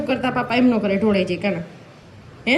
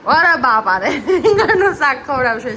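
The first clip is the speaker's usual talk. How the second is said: laughing; 5 dB louder than usual. Real, not acted. Amused by child's answer.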